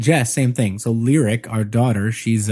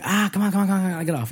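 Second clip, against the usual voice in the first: dad brushing off; 7 semitones higher, 3 dB quieter, faster than usual. Retold or imitated. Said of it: "he'd be like".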